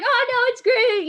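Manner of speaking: high, loud cheerful brush-off; calm the guard, it's fine; high reassuring. Retold or imitated.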